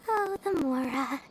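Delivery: savoring, dreamy greed rising high at the end; greedy daydream. Acted. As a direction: drool over imagined coins. Dori daydreaming about money.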